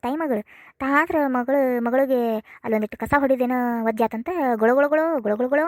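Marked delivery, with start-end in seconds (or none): 4.6-5.6 mildly mimicked blubbering; mock their sobbing with swooping repeats; mock wailing. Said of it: "ಅಂತ ಆಳಾಕತ್ತಾರ ಇಬ್ರು ತಾಯಿ ಮಗಳು". (ಗೊಳೋ ಎಂದು ಅಳುವ ಅಣಕ)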